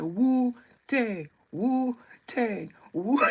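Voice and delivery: loud imitation of Chinese movie chant; mock Chinese accent. Streamer recalling a movie, mock Chinese accent. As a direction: chant it loudly as the mock-Chinese film characters. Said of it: "some Chinese people were like".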